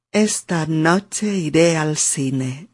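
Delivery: slow, careful "Esta noche iré al cine" with a rise on "iré"; careful attempt. Shown as a demonstration. French student trying the Spanish rhythm carefully. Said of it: "A ver".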